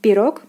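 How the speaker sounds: пирог with full final "o"; careful model пирог, stressed on о. Shown as a demonstration. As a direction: say пирог as "pi-ROK". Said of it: "O is stressed".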